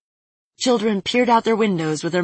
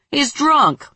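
laughing; 9 semitones higher, 5 dB louder than usual. Acted. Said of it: "burst out laughing".

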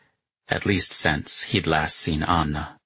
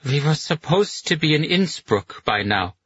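put-on high slurred drunken complaint; slurring; 8 semitones higher than usual. A narrator's reading. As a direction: slur it like she's had too much whiskey.

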